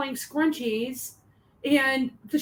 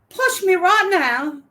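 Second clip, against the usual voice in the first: louder mock dare; 7 semitones higher, 7 dB louder, slower than usual. Teasing taunt.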